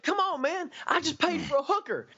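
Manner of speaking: high, wheedling plea; whiny pleading. Retold or imitated. Alan begging to stay at the apartment, whiny. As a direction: beg to stay like a kid.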